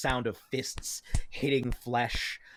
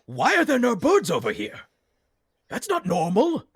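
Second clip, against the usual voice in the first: Yim; 7 semitones higher, 7 dB louder than usual. Acted. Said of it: "looks at the rest of you and says".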